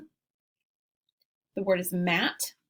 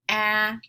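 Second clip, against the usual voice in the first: "a" punched louder as the peak of the word; stressed vowel; 5 dB louder than usual. Shown as a demonstration. Teacher to class, showing the middle vowel, stressed loud. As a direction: hit the vowel "a" hard, like the top of a roller coaster. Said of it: "really emphasizing that middle vowel sound".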